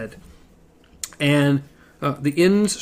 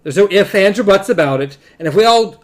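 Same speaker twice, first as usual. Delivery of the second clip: loud threat; 6 dB louder than usual. Retold or imitated. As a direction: bellow it down the bridge. Voicing the pirate's threat.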